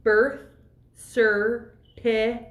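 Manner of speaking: BIRTH CERTIFICATE syllable by syllable; slow spelling-out. Acted. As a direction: say "Birth certificate" slowly in separate chunks. Spells it out for supposed non-English speaker.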